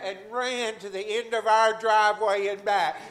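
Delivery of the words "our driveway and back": louder, laughing through the words; laughing joy. Real, not acted. Healed man laughing as he tells the church he ran. Laugh heard while recounting healing.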